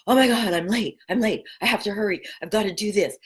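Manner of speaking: quick, panicky mock rush of a late morning; frantic rush. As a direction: rattle it off like someone late and flustered. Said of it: "the regular normal thing of going".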